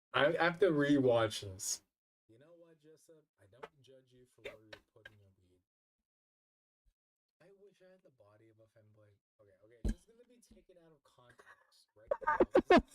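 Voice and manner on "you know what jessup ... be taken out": played-back clip. Real, not acted. Clip replayed quietly.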